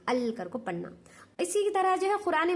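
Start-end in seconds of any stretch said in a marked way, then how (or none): 0.1-0.3 अल with the lam clearly sounded; pronounced lam. Shown as a demonstration. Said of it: "बल्कि लाम को पढ़ना".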